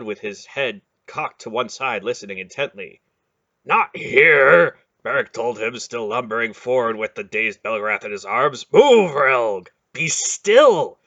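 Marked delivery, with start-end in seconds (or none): 3.6-4.8 loud, high protest; urgent shout. Acted. Beric shouting back at Relg while running, loud. Beric urging them onward. 8.7-9.7 loud command to hurry; urgent shout. Acted. Beric yelling at Relg to keep moving, loud. 9.9-11.0 loud, high command for silence; sharp order. Acted. Relg ordering the others to be still, loud and firm. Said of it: "Relg ordered".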